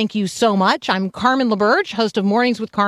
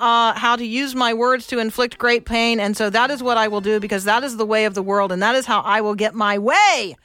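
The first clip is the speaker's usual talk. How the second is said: a hammed-up big bully boasting; mock bully parent; 2 semitones higher than usual. Parent voicing bullying worldly attitude.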